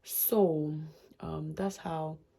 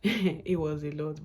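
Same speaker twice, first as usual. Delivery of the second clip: says it slowly through a laugh; slow, chuckling disbelief; 4 dB louder, slower than usual. Real, not acted. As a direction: laughs it off, half amazed. Laughing at the memory.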